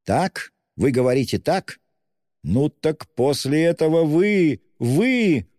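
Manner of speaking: high, rising burst of delight; rapturous cry. A narrator's reading. Student overjoyed that she agrees, rapturous high cry. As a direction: cry out in mounting ecstasy. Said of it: "закричал он в восторге".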